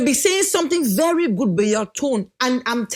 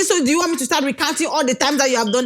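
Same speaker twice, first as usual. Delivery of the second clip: quick, higher-pitched retold challenge; mock exasperated wifely retort; 4 semitones higher, faster than usual. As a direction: fire back the question in one fast run. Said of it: "I say".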